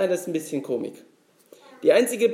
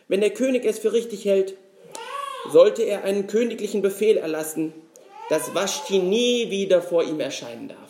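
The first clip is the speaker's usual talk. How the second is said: fireside storyteller. Acted. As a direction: spin it like an old fairy tale. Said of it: "die Stimme eines Märchenerzählers anzunehmen".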